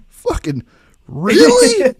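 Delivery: flat start, then a high squeal on really; mock outrage, voice jumping high; exasperated boss. Boss finding the second bucket, mock outraged squeal. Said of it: "he goes".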